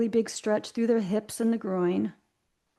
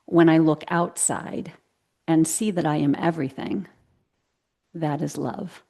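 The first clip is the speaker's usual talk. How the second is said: reciting a quote; 3 semitones lower than usual. Shown as a demonstration. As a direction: read it out like a line of wisdom. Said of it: "So the quote is".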